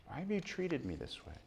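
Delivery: soft, wounded question; hurt plea. Acted. Mary pleading quietly with her son. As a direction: let the hurt soften it.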